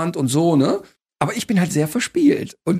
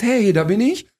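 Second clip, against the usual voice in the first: cocky entrance; 5 semitones higher than usual. Retold or imitated. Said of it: "rauskommt und sagt".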